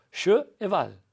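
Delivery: "che" and "val" slowly pulled apart as two beats; syllable by syllable. Shown as a demonstration. Teacher splitting cheval for pupils, slow syllables. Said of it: "dans le mot cheval".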